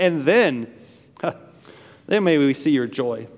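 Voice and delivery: mildly mocking scoffer; lightly sneering doubt; sarcastic. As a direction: finish the taunt with a scoff. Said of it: "it's sarcasm".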